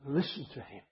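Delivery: hushed echo. Shown as a demonstration. Preacher letting the command sink in, softly hushed. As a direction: let it sink in quietly.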